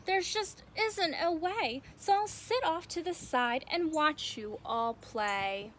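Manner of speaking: mildly defeated, resigned delivery; a touch of giving up; dejected. Acted. Ricky bowing out of play, mildly dejected. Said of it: "Ricky sighed".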